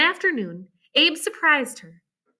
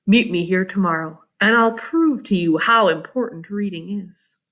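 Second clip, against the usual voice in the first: Abe; 6 semitones lower than usual. Acted. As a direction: lower young man's voice. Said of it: "he said quietly".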